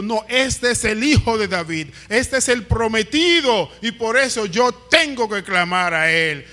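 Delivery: emphatic acted declaration of faith; firm conviction. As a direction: declare it as someone fully convinced. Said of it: "tenía una convicción tal". (convicción firme, actuada)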